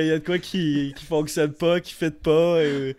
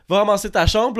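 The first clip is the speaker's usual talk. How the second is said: imitating mother; 5 semitones higher, 5 dB louder than usual. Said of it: "ma mère, a dit".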